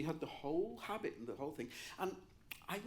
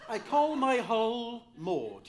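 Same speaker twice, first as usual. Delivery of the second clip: imitating the laryngectomy whisper-rasp, slow; wheezy teacher voice; 6 semitones higher, 11 dB louder, slower than usual. Retelling his piano teacher's words, a slow rasping mock voice.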